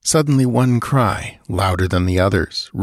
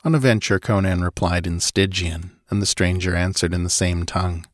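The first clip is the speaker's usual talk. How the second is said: plain reading voice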